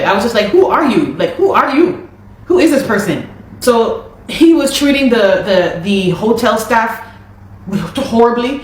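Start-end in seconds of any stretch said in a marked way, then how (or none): 0.5-3.3 a little higher, half-laughing disbelief; can't believe who he's become; stunned disbelief. Retold or imitated. Retelling her shock at the manager yelling, with a laugh of disbelief. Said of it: "I couldn't believe it".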